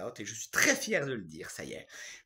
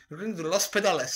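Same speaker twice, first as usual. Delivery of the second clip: louder imitated Portuguese accent; strong Portuguese accent; 3 semitones higher, 5 dB louder than usual. Seller repeating the name to a puzzled customer, mock Portuguese accent. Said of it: "un fort accent portugais".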